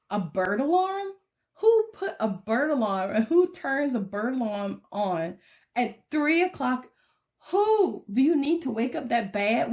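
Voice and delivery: fed-up woman woken at three a.m; exasperated. Retold or imitated. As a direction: vent at the neighbors in disbelief. Exasperated rant at neighbors' alarm.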